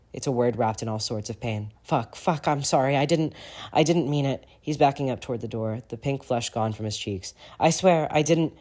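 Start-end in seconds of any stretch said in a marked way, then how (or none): 1.8-8.5 choked apology. Acted. Regulus backing toward the door, choked apology. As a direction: beg forgiveness with a hitching voice. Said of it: "He chokes and his voice hitches".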